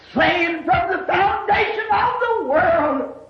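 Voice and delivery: forceful, ringing sermon voice; impassioned preacher, stretching words for weight; fervent preaching. Real, not acted. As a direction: preach with full force, leaning on key words.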